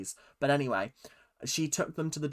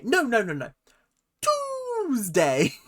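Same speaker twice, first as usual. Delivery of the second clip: frustrated caller yelling a lot higher and louder; losing it with the machine, Tuesday bellowed high; exasperated shout; 10 semitones higher, 6 dB louder, slower than usual. Retold or imitated. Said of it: "sketch she did in her show".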